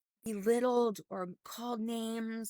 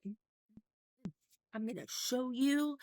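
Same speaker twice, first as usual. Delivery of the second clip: huffy and puffy; 3 semitones higher than usual. Retold or imitated. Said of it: "I got all huffy and puffy".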